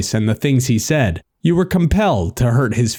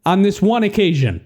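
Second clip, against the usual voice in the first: higher-pitched pleading; begging; 7 semitones higher than usual. A narrator's reading. Narrator asks the reluctant companion for trust, begging. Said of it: "I begged".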